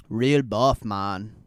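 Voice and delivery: mock bodybuilder brag, barely changed voice; lightly voiced muscleman; Arnold impression. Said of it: "I can't do a good Arnold voice".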